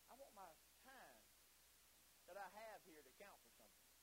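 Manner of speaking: soft, falling voice with pauses; quiet resolve. Acted. Preacher voicing what we should say, subdued. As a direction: say it as a hushed personal wish.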